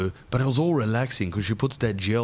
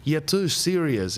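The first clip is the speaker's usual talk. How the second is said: put-on higher nagging girlfriend voice; mock her dumping him, pitched up; 6 semitones higher than usual. Girlfriend dumping him, higher mock voice. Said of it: "She goes".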